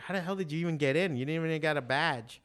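astonished quick outburst; amazed. Retold or imitated. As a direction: blurt it out in surprise. Surprised the kid got in.

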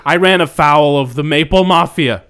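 high, loud, desperate outburst; shouted confession. Acted. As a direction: yell your excuse in a panic. Acted confession shouted in quarrel.

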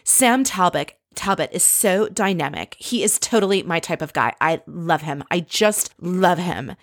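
lightly mocked fake gushing, slowing on the last love; put-on New York fake enthusiasm; gushing hype. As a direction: imitate an inauthentic hype-show rave. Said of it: "whenever she talks like this".

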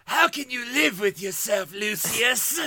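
lightly raspy Harvey Fierstein Voldemort; a hint of Fierstein in the Dark Lord. Podcast host mocks Voldemort in Harvey Fierstein voice. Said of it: "my Voldy Firestein".

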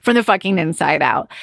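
lightly acted stern self-talk; mildly hammed-up ultimatum; body laying down the law. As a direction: play the body telling its owner off, emphatically. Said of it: "my body was like".

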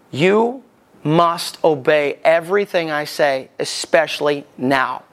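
slow, measured retold command; deliberate instruction. Radio controller telling the pilot to obey, slow and deliberate. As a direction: weigh each word of the order, slowly.

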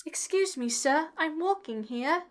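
a hammed-up cabbie yelling at traffic; New York accent. Cohost mocking a New York accent to compare it with Cockney. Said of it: "stereotypical New York gangsters".

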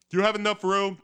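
high, loud woman voice; high sultry woman voice. Acted. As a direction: ham up a seductress.

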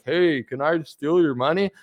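slow, obvious mock of a clumsy crook; mock bad con artist. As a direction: play the crook who gives himself away, slowly. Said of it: "A bad con artist is like".

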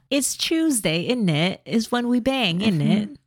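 hammed-up British, TUESDAY as "chews-day"; British accent. Co-host spoofing a couple's bedroom schedule, British accent. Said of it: "which British accent is that".

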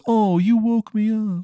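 put-on Maryland accent, high and slow, just woken; groggy high voice. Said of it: "he kinda groggily is like".

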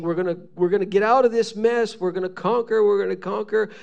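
fast, rallying war talk; eager boasting. Retold or imitated. Exiles sure they will escape Babylon, eagerly boasting. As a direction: hurry it out like an eager crowd. Voices people predicting escape.

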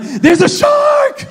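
exaggerated terror at a shark sighting; hammed-up shark panic. Man in the sea screams a shark warning, hammed-up panic. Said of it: "I am exaggerating the experience to the fullest degree".

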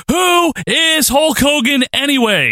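slow, high, sneering; mock Flair. Host quoting Flair's dismissal, slow high sneer. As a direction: drawl it like Flair. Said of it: "Flair says".

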